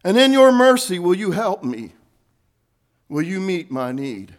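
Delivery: pleading prayer. Acted. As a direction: cry out, then fade to a humble request. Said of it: "Cry out for his mercy".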